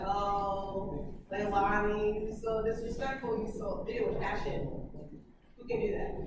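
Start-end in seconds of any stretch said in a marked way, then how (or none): 0.1-3.8 unbothered, monotone mock reading; passionless reading. Shown as a demonstration. Teacher shows students how not to read it, passionless monotone. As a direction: drone it with no anger at all. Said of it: "Read it like you're real mad, though. Not like".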